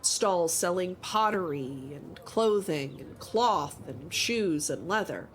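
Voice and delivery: measured scene-setting narration; storyteller GM voice; game master narration. Acted. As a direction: paint the market for the players. GM describes market scene.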